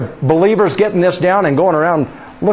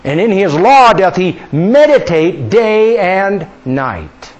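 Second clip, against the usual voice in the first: scripture reading; 3 semitones higher, 3 dB louder, slower than usual. Acted. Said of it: "verse translation".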